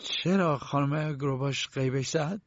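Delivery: taken aback, voice lifting slowly; astonished. Acted. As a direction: ask it in bewilderment, drawn out. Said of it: "با حیرت نگاهشان کرد".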